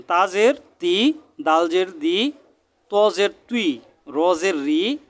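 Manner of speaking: deliberate recitation, each final vowel lifted and held; chanted letter-by-letter class cadence; spelling drill. Shown as a demonstration. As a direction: sound out each syllable for learners to copy.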